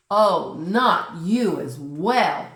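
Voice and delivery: loud, slow exasperated shout; fed-up cry, dragged out. Acted. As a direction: Nora shouting at the polar bear. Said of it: "shouts Nora".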